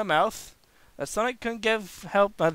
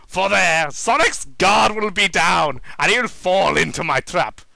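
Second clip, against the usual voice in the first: louder, gloating finish; triumphant villain; 6 dB louder than usual. Acted. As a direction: relish the trap. Villain finishes plan laughing.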